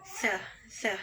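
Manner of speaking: teacher modelling "th" for se; th sound demo. Shown as a demonstration. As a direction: sound out se as English th, twice. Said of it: "itu dibaca".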